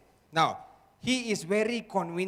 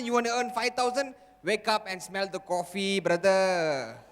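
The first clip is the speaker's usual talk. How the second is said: mocking inner voice; 4 semitones higher than usual. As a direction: scoff at the goal as the inner voice. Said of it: "What did the voice say?".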